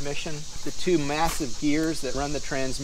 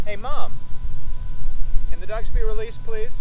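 loud, higher call across the field; 8 semitones higher, 9 dB louder than usual. Real, not acted. Daughter calling across to Mom to release the dogs. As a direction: call out so Mom hears from far off.

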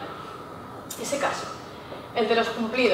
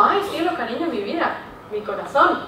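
affectionate endearments. Shown as a demonstration. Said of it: "Utilizamos nombres como".

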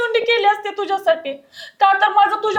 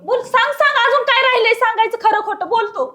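demanding; 3 semitones higher than usual. Acted. Wife demands the truth.

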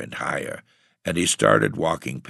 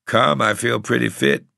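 tramp's muttered thought; 9 semitones higher, 6 dB louder than usual. A narrator's reading. Tramp voiced waking in snow.

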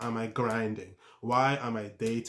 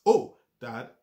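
startled warning; slower than usual. Retold or imitated. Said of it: "taste warns us".

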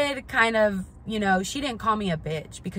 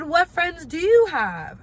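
much higher, louder, slow jab; cutting retort; 9 semitones higher, 6 dB louder, slower than usual. Retold or imitated. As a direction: land the burn slowly. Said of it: "And I said".

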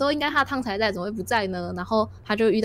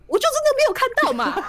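high, louder, laughing mock protest; annoyed giant; 4 dB louder than usual. Giant snapping back at the frog about the spoon, mock annoyed. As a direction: whine it back, half laughing. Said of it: "巨人就有点生气".

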